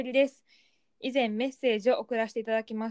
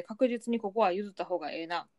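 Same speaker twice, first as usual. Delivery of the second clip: slipping into Kansai dialect; natural Kansai accent, casual. Real, not acted. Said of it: "あ、ごめん、関西弁になっちゃった。". (関西弁)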